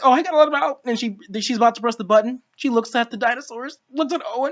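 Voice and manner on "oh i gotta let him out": mock crying. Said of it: "Claire's crying".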